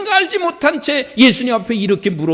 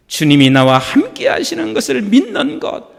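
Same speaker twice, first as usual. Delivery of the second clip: louder, firmer repeat; louder, more emphatic repeat of 믿는 것; louder restatement; 3 semitones higher, 3 dB louder than usual. Shown as a demonstration. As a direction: say it again with conviction. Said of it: "repeated, louder".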